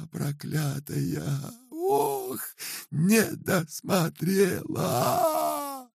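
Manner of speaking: very high, slow sobbing lament; keening lament. A narrator's reading. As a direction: wail with self-reproach. Old woman's long lament.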